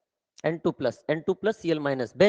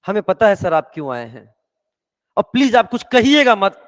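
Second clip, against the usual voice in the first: pleading refusal; 2 semitones higher, 8 dB louder than usual. Acted. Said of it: "कह रहा".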